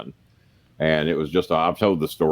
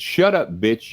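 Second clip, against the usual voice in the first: angry rebuke; 4 semitones higher, slower than usual. Retold or imitated. Retold angry rebuke of girlfriend.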